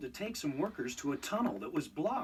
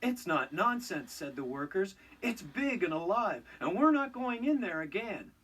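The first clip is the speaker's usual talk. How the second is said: insistent scared workers; 4 semitones higher than usual. Acted. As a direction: insist you won't go back in.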